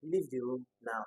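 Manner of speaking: "Leave the room now" as an unexcited command, tune falling; falling intonation. Shown as a demonstration. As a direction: let "Leave the room now" sink to its end. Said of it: "the reason why you're not excited".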